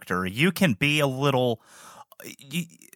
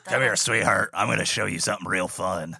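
creepy haunt voice; 3 semitones lower than usual. Pretend. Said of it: "Act like you just".

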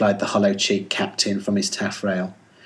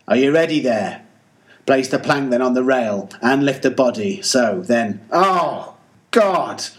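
anguished cry to crew; 2 semitones higher than usual. Acted. Captain orders the burial, then cries out in grief. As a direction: let the orders break into anguish. Captain buries his sailor.

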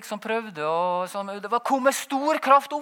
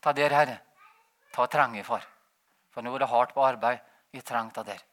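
quiet prayer; 11 semitones lower, 5 dB quieter than usual. Retold or imitated. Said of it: "og så sa jeg til Gud".

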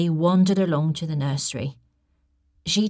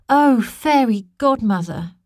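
pleading princess; 7 semitones higher, 7 dB louder than usual. A narrator's reading. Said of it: "Princess Ellie began".

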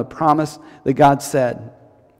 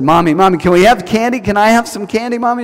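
put-on higher childlike begging voice; little girl begging; 6 semitones higher than usual. Little girl begs mommy for candy, higher whiny voice. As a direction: whine up like a small girl after candy.

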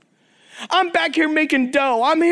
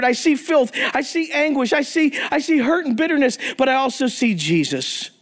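pastor praying over the men; earnest prayer. Acted. Prayer continues.

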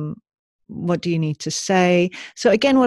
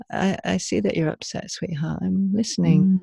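gentle acknowledgment. Shown as a demonstration. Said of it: "Simply, if a child's upset".

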